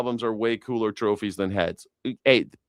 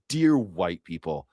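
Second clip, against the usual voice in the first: slow mock address; a touch of sanctimonious imitation; mocking preachy tone; 6 semitones lower, slower than usual. Shown as a demonstration. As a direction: drag out the words sarcastically. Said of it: "It's just the tone of voice throws me".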